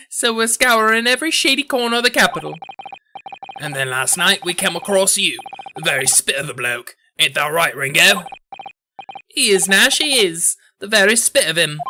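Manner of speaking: lightly voiced Cockney mobsters. Mobster brothers telling how they came across you, Cockney voice. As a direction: play mobster brothers backing each other up.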